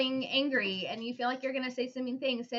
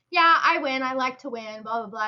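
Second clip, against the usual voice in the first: put-on cocky kid; 2 semitones higher, 6 dB louder than usual. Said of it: "Maddie's like".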